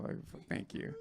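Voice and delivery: a whispered thank you through held smoke; hoarse little whisper while holding the hit; breathless thanks. Real, not acted. Comic holding bong smoke thanks the host in a whisper.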